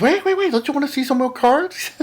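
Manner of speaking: high, hurried wait wait wait; mock-eager seller calling out; eager old man. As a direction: call him back before he leaves. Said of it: "He goes".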